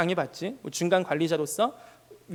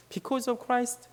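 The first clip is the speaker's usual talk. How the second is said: slow, weighty quote; 3 semitones higher, much slower than usual. Retold or imitated. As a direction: drag "Because of Christ" out gently. Repeating the quote. (천천히 조용히 되뇌듯)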